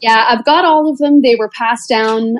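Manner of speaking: normal talking voice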